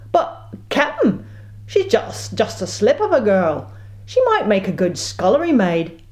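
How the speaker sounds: put-on first mate pleads for girl; timid first mate. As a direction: beg nervously.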